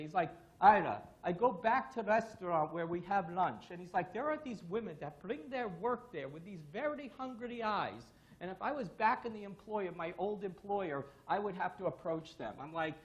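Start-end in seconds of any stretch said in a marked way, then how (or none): 0.6-3.7 loud, lightly imitated Russian accent; mock Russian defector's accent; Stan. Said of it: "with my funny Russian accent". 4.1-12.5 lightly imitated Russian accent; a hint of mock Russian accent; Stan. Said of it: "with my funny Russian accent".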